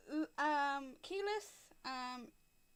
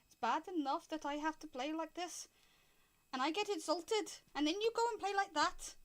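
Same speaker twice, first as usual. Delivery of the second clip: lightly voiced tiny piper airing a grievance; aggrieved little man; 5 semitones higher than usual. Insulted piper grumbles to Winston, lightly aggrieved little man. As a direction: complain like a put-upon little man, mildly. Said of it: "tiny men".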